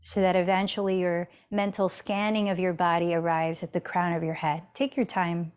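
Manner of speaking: unhurried body-scan guidance with long pauses; spacious, even meditation-teacher delivery; guided meditation. Real, not acted. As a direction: lead them gently inward, phrase by phrase.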